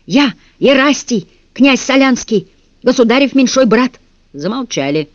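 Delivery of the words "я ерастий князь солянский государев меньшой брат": proud proclamation. Acted. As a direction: declare it with princely dignity. Prince declaring rank to guards.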